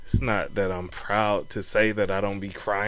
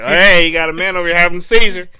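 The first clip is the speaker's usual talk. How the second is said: mock alarm; 8 semitones higher, 11 dB louder, faster than usual. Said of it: "They'd be like".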